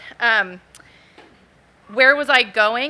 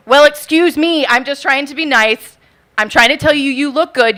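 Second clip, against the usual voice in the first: aggravated; 5 dB louder than usual. Retold or imitated. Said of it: "gets aggravated".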